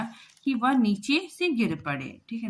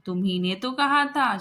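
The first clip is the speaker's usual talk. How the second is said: put-on louder, higher retort of a girl blaming her brother; indignant accusation; 4 semitones higher, 6 dB louder than usual. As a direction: snap back at him, pointing the blame. Shyama blames brother back. (Shyama भाई पर उल्टा इल्ज़ाम लगाती है, चिढ़कर)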